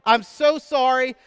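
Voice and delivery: high, loud, slow apology through laughter; embarrassed registrar laughing out her apology. Retold or imitated. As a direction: apologise while laughing helplessly. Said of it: "she said".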